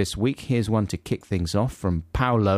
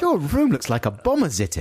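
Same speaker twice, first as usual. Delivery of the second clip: scolding mum; 4 semitones higher than usual. Acted. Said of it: "she said".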